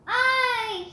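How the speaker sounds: high loud cry of aye; shouted aye. Acted. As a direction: shout your vote out. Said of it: "shouted David".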